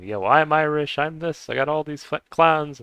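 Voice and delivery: high, loud mock southern American accent. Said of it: "talking in a southern accent".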